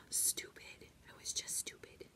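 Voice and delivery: very soft, voiceless whisper; whispered self-reproach. Real, not acted. Teacher blaming herself for the accident, whispered self-reproach. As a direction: whisper it to yourself in dismay.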